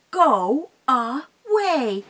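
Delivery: slow, loud, drawn-out troll command; stern troll. Acted. Mama Troll ordering the goat off the bridge. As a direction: stretch it out to scare him off. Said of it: "and she said".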